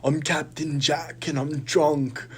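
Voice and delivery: put-on high, slow drunken pirate voice; Jack Sparrow impression. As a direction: slur it like a tipsy pirate captain. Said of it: "that's my impression of him in that movie".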